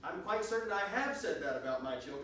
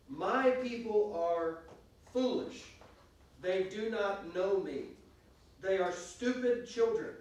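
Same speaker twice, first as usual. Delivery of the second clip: scripture reading; 3 dB louder than usual. Acted. Reads scripture aloud.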